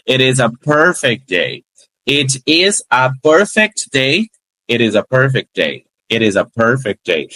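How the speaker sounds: It is a perfect day in one flow, It is linked; no breaks between the words; linked speech. Shown as a demonstration. Teacher modelling fluent linking for students. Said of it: "eu nem paro no som".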